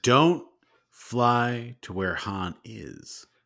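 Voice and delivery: very slow, drawn-out, sage, wise tone.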